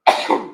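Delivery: a real sudden sneeze; sneezing. Real, not acted. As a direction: sneeze out, caught off guard. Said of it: "I have to sneeze".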